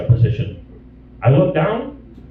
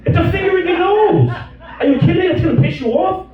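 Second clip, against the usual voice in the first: mock indignant rant; 11 semitones higher than usual. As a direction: shout it like it's obvious. Ranting back at his wife.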